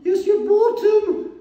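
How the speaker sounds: put-on very high, slow falsetto English accent, Mrs Doubtfire style; mock English accent. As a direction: play a hammed-up English lady with a posh English accent. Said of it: "my English accent".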